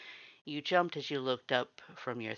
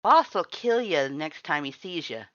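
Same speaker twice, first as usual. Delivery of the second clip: higher, louder threat; angry warning; 6 semitones higher, 10 dB louder than usual. Acted. Red warns the visitor his boss will kill her, angry. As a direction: warn her with menace.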